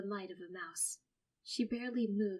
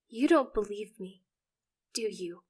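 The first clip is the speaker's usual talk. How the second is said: whining; 8 dB louder than usual. Acted. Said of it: "I whine".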